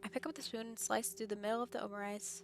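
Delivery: reading the game's narration aloud; calm first-person story reading. Acted. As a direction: narrate the inner thoughts evenly. Reads visual novel narration.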